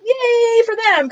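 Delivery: hammed-up crying with joy; mock happy sob. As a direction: gush through fake happy tears. Mock happy tears again.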